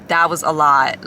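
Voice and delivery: breathy whispered aside. Real, not acted. After telling her panic attack story, a whispered sigh to viewers. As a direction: let it out in a whisper.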